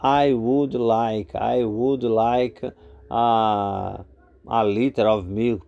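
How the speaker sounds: I would like drawn out very slowly; slow classroom model; slow demo. Shown as a demonstration. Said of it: "se usa muito".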